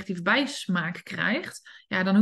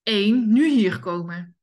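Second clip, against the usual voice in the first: louder countdown ending in a command; an impatient owner's louder countdown; stern countdown; 4 dB louder, slower than usual. Shown as a demonstration. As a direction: count down, then order sharply. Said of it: "Gaan ze vaak tellen".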